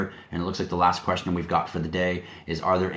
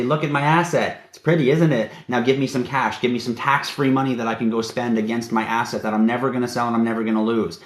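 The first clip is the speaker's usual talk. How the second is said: higher, smug borrower showing off his asset; mock borrower to bank; 4 semitones higher than usual. Showing off an asset to a bank to get a loan, in a higher, smug mock voice. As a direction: sweet-talk the bank for cash against the asset.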